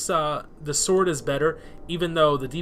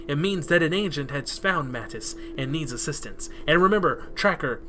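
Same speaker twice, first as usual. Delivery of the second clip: commanding quest-giver; 3 dB louder than usual. Acted. Reads quest text in character.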